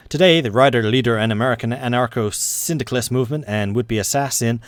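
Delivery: measured newsreader delivery; old newsreel announcer voice; news read. Acted. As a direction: read the bulletin like a wireless announcer. Reads news event.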